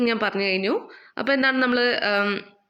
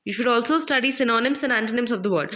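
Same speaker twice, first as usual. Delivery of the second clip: slow textbook reading; much slower than usual. Shown as a demonstration. Reads textbook line aloud.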